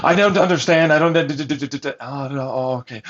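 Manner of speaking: stammering imitation of someone stalling; mock flustered stutter trailing into resignation; mock confusion. Mimicking their confused stalling.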